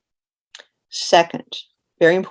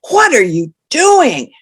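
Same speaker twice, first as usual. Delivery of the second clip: slow, high and loud shocked question; shocked, louder and higher; 7 semitones higher, 8 dB louder, slower than usual. Shown as a demonstration. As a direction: gasp it out in disbelief. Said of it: "I will say that sentence in a shocked tone of voice".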